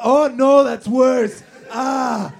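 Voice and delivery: high loud yelp of pain; pained shout. Acted. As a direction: shriek it like it really hurts. Rubbing foot makes worse.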